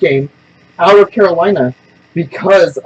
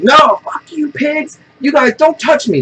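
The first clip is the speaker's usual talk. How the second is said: high-pitched retold outburst; high mock-frantic protest; frantic girl; 9 semitones higher, slower than usual. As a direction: imitate a frantic girl lashing out. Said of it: "and she's frantic".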